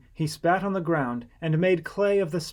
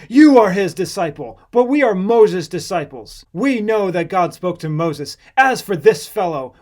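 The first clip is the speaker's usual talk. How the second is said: loud scornful reviling; 4 semitones higher, 10 dB louder than usual. A narrator's reading. Angry Pharisees revile the healed man, loud and scornful. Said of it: "Then they reviled him and said".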